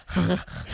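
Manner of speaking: imitated dry-mouthed panting; huffing, parched mock gasps; exaggerated dry breathing. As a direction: act out breathing in and out with no saliva. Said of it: "breathing in and out and going".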